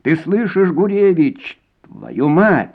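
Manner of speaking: high angry yell at Gurevich; shouted down the corridor. A narrator's reading. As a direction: bellow it so the whole corridor hears. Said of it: "разносилось по всему коридору". (крик на весь коридор)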